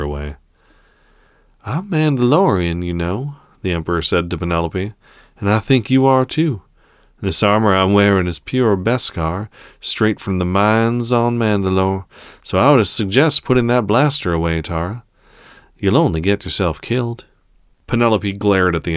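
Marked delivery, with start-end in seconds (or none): 1.6-3.4 lightly voiced cold emperor; menacing emperor. Emperor taunts Penelope. 5.4-17.2 lightly voiced cold emperor; menacing emperor. Emperor taunts Penelope.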